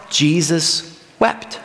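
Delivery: slow recitation. Shown as a demonstration. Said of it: "John chapter eleven, verse thirty-five".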